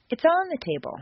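"on" punched high, "table" falling away; stress on on. Shown as a demonstration. Teacher correcting the location, "on" stressed high. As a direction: hit the word "on" high, then drop. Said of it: "Changed intonation".

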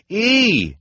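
high loud shout; cried. Acted. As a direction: bellow the letter over the din. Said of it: "Klaus cried".

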